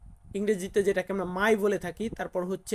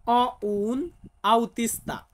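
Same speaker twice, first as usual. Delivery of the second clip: "অ উন আউতিস্তা" said very slowly, word by word; slow model sentence; much slower than usual. Shown as a demonstration. Teacher modelling the Italian sentence slowly for students. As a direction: spell out "অ উন আউতিস্তা" at half speed for learners. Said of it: "আমাকে বলতে হবে".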